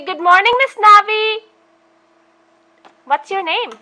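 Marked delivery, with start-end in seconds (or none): 0.0-1.4 clear, high teacher model; model phrase for child. Shown as a demonstration. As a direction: say it sweetly for the child to copy.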